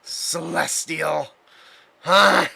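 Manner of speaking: sneering with disgust. Acted. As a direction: spit out the word in contempt. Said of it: "you can hear the disgust in his voice".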